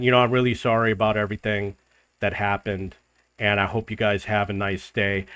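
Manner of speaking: smooth things over softly and hurry away; polite apology. Retold or imitated. Apologizing to the other guy at the table, soft and polite.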